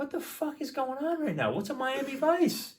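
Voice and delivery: hammed-up panic, voice way up; mock freakout. Retold inner panic at bar.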